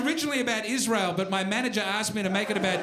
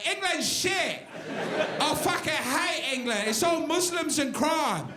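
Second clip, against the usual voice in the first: put-on English accent; 4 semitones higher than usual. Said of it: "They go".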